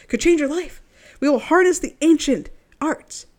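loud, upbeat ad voice; infomercial read. Acted. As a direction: sell it like a TV commercial. Reads witch coven website ad.

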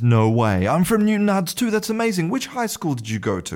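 high-pitched, astonished "No way"; amazed. Acted. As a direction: squeal with disbelieving joy. Irishman amazed at same town.

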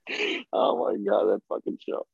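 ordinary delivery

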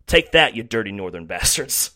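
playful taunt cracking into laughter; laughing taunt. Real, not acted. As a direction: jeer through a laugh. Mock taunt at rival fans.

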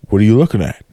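goofy voiced pet talking back; a silly dumb pet voice; dog voice. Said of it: "do the dog's voice".

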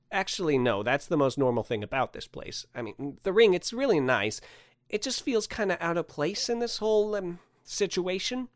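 tactful objection, slowing into an awkward close; hesitant Andrew. Acted. Man politely explains his doubts to Santa, hesitant. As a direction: pitch climbing as he hedges.

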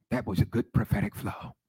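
imitating shushed S's, "was" as "wash"; Margaret Washington. Recalling a colleague's praise after ministry, "was" with shushed S. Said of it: "she used to shh her S's".

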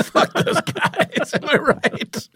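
high, breathy, sneering put-on voice; mock contrarian. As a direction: play a snobby contrarian sneering at a famous band. Mocking contrarian voice.

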